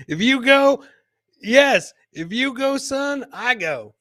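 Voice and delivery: high-pitched put-on dad voice; hammed-up high father voice; mock dad voice. Voicing dad in clip.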